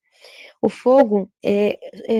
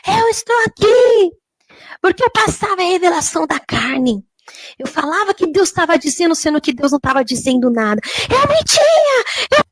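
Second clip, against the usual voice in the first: terrifying scream; 7 semitones higher than usual. Retold or imitated. Woman in hell confessing her false revelations, screaming in torment. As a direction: wail the confession at a piercing pitch. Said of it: "tão apavorante, ela gritava assim".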